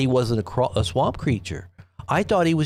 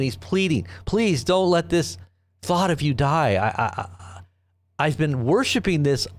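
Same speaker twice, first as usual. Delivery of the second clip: mock pleading.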